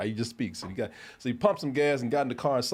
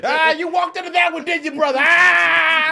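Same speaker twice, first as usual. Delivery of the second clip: loud, higher gloating yell; pleased with himself; 12 dB louder, slower than usual. Retold or imitated. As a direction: shout it like you just won. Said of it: "he was all pleased with himself".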